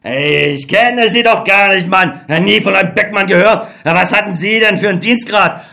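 a touch of a haughty officer; dismissive colonel. Acted. Colonel dismissing the soldier Beckmann, lightly voiced. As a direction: wave him off as a nobody.

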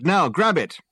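loud high command; yelling. A narrator's reading. Rescuer ordering man to take lifebelt, yelling. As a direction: yell an urgent order. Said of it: "yelled Dirk".

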